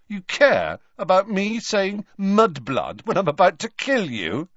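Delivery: put-on Malfoy jeering at the old headmaster; sneering retort. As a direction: throw it back with a sneer.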